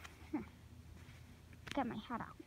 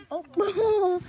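laughing; 3 semitones higher, 5 dB louder than usual. Real, not acted. Girl laughs as the old dog comes over. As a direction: laugh through the question.

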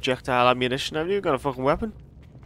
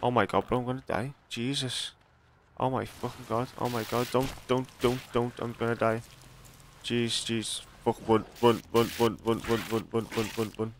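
panicking gamer. Real, not acted. Chased by monsters in game.

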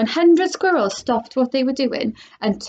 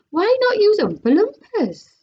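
pushy question; 10 semitones higher, 3 dB louder than usual. Acted. Mike TV questioning.

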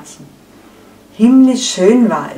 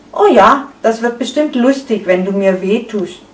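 eager excitement; 3 semitones higher than usual. Acted. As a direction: leap at the idea with glee. Eiweiß reacts eagerly to pain. (begeistert und aufgeregt, höher und lauter)

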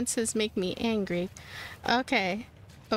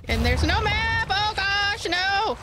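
high, loud exasperated cry; real loud groaning dismay; frustrated outburst; 8 semitones higher, 4 dB louder, slower than usual. Real, not acted. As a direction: blurt out the dismay. Lost, frustrated while attacked.

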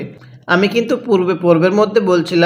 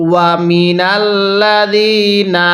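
Quran recitation. Shown as a demonstration. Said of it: "কিভাবে পড়ব?".

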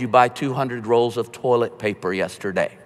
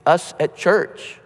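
slow, higher, casual invite to a coworker; friendly invitation; 5 semitones higher, slower than usual. Pretend. Churchgoer casually inviting a coworker over the phone, friendly. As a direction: lightly ask a friend along, slowly. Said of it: "you can say".

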